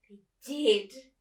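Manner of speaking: put-on loud surprised old lady. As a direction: exclaim it like an old neighbour. Miss Forcible voiced.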